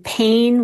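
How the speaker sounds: PAIN with a drawn-out Southern vowel glide; Southern-accented "pain", stretched out. Shown as a demonstration. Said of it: "particularly Southern".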